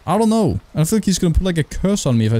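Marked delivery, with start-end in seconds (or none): 0.0-0.6 squeaky mock voice. Joking at the ghost's mock question.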